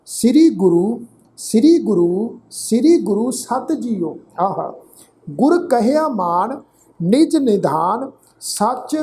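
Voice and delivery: slow, measured Gurbani recitation; scripture recitation. Acted. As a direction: recite each phrase deliberately, with pauses and drawn-out vowels. Recites scripture between explanations.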